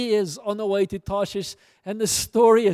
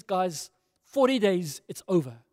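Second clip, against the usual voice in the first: unsmiling, upset prophet. Acted. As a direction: deliver the doom without a smile. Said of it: "Probably not with a smile on his face".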